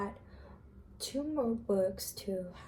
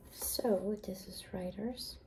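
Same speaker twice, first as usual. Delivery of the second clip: library whisper; 4 dB quieter, slower than usual. Real, not acted.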